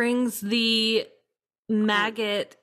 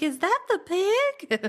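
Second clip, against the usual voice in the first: high, drawn-out mock disbelief; slow it down and lift it way up; imitated incredulous visitor; 10 semitones higher than usual. Visitor spotting the rotting pig, mock-incredulous and high. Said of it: "she comes over and she's like".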